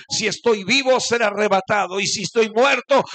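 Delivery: rising to a full preaching shout. Acted. Preacher to congregation, voicing Paul, shouting. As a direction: build to a roaring climax as Paul.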